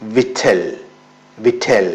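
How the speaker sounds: വിറ്റൽ said "wit-tel", with no k; വിറ്റൽ starting on w, the k dropped; silent k. Shown as a demonstration. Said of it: "കെ silent ആണ്". (കെ ഉച്ചരിക്കാതെ)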